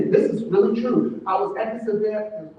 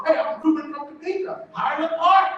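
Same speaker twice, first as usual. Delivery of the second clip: naive self-introduction; 7 semitones higher, 4 dB louder than usual. Retold or imitated.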